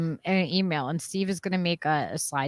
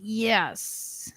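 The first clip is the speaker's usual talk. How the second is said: whisper; 4 dB quieter than usual. Real, not acted. Whispered aside.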